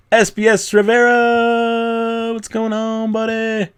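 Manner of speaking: high, slow, drawn-out Yoda call; creepy Yoda greeting. Acted. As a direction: stretch the name out like creepy Yoda.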